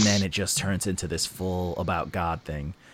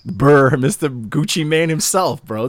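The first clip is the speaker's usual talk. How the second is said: laughing while hyping it up; excited, words cracking into laughs; 3 semitones higher, 5 dB louder than usual. Real, not acted. Hype rant breaking into laughter.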